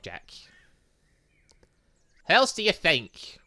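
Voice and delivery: ordinary talk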